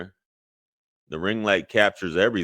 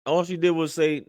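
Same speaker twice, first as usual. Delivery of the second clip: higher and louder, indignant at the clip; can you believe this, raised and incredulous; outraged disbelief; 12 semitones higher, 4 dB louder than usual. Real, not acted. Outraged reaction after playing clip.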